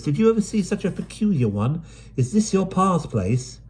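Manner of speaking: brisk London urchin, chatty; Dido's voice. Acted. Dido spots the gate.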